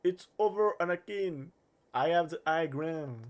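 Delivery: put-on Star Wars quote in an English accent; slow, dramatic English-accented line. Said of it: "Avec un accent anglais magnifique".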